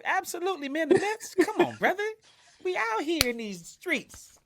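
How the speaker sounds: high-pitched, hammed-up fan bravado; hyped-up Mets fan. Fan convincing the officer he loves the Mets, mock hype. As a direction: play the die-hard fan to the hilt.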